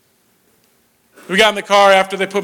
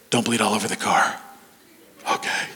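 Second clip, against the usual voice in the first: low, dry fatherly grumble; deadpan it like a tired dad; dad mutters flatly from the driver's seat; gruff dad; 10 semitones lower, 6 dB quieter than usual. Retold or imitated. Dad speaking on drive to hospital.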